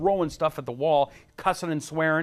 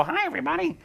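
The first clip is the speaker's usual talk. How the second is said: much higher, hammed-up DJ greeting; cheesy radio voice; faster than usual. Shown as a demonstration. Host mocking his own terrible radio voice, hammy. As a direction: overdo a corny radio hello. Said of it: "we have these terrible radio voices".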